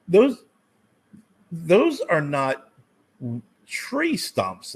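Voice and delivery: stunned by the silly stump price; incredulous. Retold or imitated. Homeowner to himself about the stump quote, stunned disbelief.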